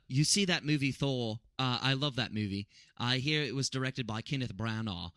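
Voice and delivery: shaky attempt at a British accent, reading aloud; terrible British accent. Shown as a demonstration. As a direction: read it in a badly done British accent. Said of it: "I have a terrible British accent".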